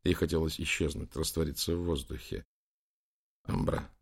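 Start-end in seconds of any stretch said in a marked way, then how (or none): 3.4-3.9 шёпот. Acted. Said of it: "прошептал Лэнгдон".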